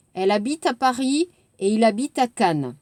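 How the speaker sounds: rapide, enchaîné, naturel; phrase d'exemple dite vite; fast liaison reading. Shown as a demonstration. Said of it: "Vous entendez?". (lecture rapide et liée)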